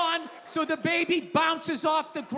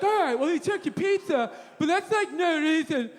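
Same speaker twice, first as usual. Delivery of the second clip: mock scolding; 4 semitones higher than usual. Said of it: "Everybody's like".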